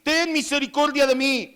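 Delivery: high, insistent plea. Acted. Blind man insisting over the crowd, high pleading cry. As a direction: cry out high for mercy, refusing to be silenced. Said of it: "él clamaba mucho más".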